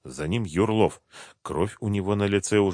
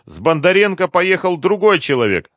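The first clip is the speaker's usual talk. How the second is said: cornered captive; 11 semitones higher, 9 dB louder than usual. A narrator's reading.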